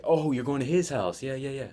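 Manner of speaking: high, loud mock repeat; saying it out loud. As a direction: blurt it out for everyone to hear. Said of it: "say that out loud".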